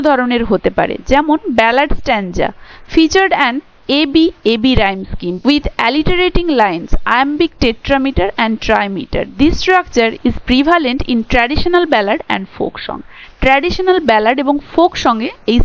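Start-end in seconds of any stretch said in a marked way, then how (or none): 2.9-13.0 reads English text very slowly, word by word; slow dictation reading. Shown as a demonstration. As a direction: dictate it slowly for students to copy. Reads English textbook definition aloud. (ধীরে ধীরে ডিক্টেশনের মতো পড়া)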